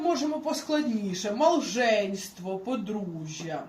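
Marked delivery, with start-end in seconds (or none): 1.3-2.6 "малженство" said slowly, the Polish way; drawn-out Polish "малженство" for learners; Polish pronunciation. Shown as a demonstration. Teacher gives a harder Polish example, slow Polish pronunciation. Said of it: "наприклад".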